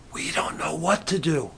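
soft, hushed confession; whisper. Shown as a demonstration. Preacher quietly admitting helplessness to God, whispered. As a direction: say it under your breath. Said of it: "I'll whisper it".

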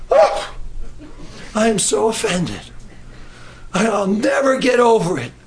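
hammed-up wounded pride with a shrieked "Oh"; mock offended. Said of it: "I've heard people talk like that".

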